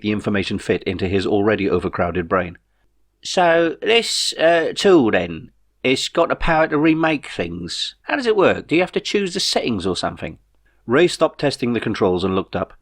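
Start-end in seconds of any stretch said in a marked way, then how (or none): 3.2-10.4 higher, bemused everyman voice; Jeff the puzzled friend. A narrator's reading. Jeff asks Ray how the remote works, higher and bemused. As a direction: puzzle it out aloud, a bit lost.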